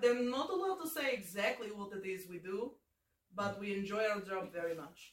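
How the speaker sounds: guarded comic Russian henchman; cagey talk in a put-on Russian accent. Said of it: "person that this Russian accent would".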